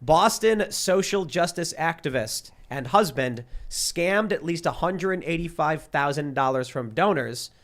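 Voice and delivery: slow, deliberate headline read; news read. Real, not acted. Host reading a New York Post scam story, slow news read. Reads newspaper story aloud.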